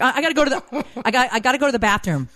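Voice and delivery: high, flustered imitation of son; weirded-out son. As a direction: stammer an awkward excuse to escape. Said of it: "He got weirded out".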